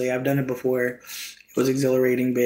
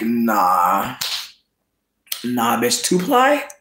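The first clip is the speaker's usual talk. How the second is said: sassy toilet voice; 2 semitones lower, much slower than usual. Pretend. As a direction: voice the toilet rejecting two ply, pitched way up. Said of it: "this toilet is like".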